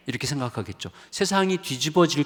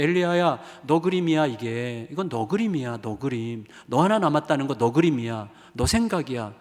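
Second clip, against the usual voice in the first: God's correction building; 4 semitones higher, 4 dB louder than usual. Acted. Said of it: "하나님께서 말씀하시는 거예요".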